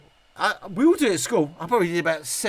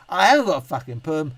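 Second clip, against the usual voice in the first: irritated denial; 6 dB louder than usual. Real, not acted.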